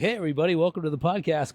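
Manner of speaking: imitating a cheesy radio welcome. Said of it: "like, radio".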